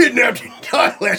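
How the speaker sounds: high, loud, put-on alarm of a worried mother; imitating worried mom. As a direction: play the panicked mom reading the book title. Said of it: "She's like".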